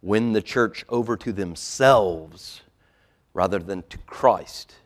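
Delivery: a touch of loud, slow warning; emphatic pulpit quotation; forceful warning quote. Acted. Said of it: "John Calvin warns us".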